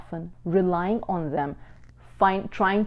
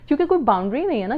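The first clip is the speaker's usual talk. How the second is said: ordinary talk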